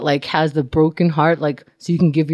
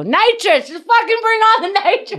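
mock eager demand; 14 semitones higher than usual. Demanding nitrous from staff.

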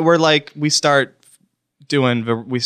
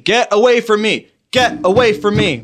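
high, raised mock scream; retold screaming; 8 semitones higher, 4 dB louder than usual. Retelling the stranger's outburst to co-hosts, mock screaming. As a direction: imitate him screaming to be left alone. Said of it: "he was screaming".

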